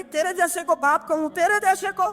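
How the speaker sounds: high, cutting contempt; bitter scorn. Acted. Daughter disowns the father who used her, bitterly scornful. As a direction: spit the words at him.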